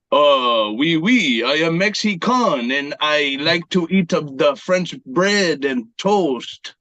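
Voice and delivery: put-on would-be Mexican accent turning French; badly faked Mexican-French accent; botched Mexican accent. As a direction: attempt Mexican but land on cartoon French. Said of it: "You want Mexican?".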